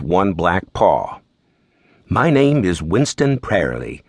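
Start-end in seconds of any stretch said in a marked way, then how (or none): 2.1-4.0 a light hint of an English accent; lightly voiced Englishman introducing himself. Butler on the phone to a detective, a hint of an English accent. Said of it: "in an English accent".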